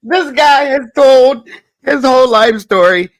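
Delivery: real laughter breaking through the words; laughing hard. Real, not acted. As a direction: crack up while talking. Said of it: "I'm over here crying".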